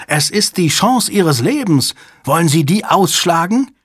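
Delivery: high, agitated, pleading threat; desperate high-pitched persuasion; screeching. A narrator's reading. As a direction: argue frantically, pitch pushed up. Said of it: "kreischte Hale".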